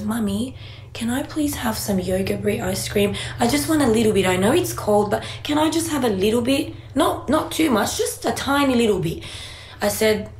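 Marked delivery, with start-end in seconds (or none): 0.0-9.2 lightly voiced little boy asking sweetly; pleading child. Mum retelling how her son asked for ice cream, lightly voiced pleading child. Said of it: "he goes".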